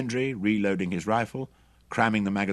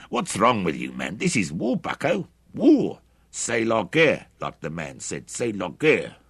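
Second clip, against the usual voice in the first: angry shout; 3 semitones higher, 6 dB louder than usual. A narrator's reading. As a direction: bellow it as a defiant excuse. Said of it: "shouted Hendry angrily".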